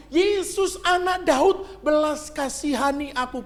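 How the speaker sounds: high pleading cry to Jesus. Acted. Bartimaeus crying out again despite the crowd, high pleading shout. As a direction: call out again, not giving up. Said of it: "Dia semakin keras berseru".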